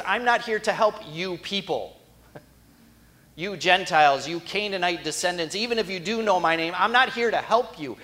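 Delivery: a stern Jesus turning the woman down; firm refusal. Acted. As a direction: hammer home that help is not for her.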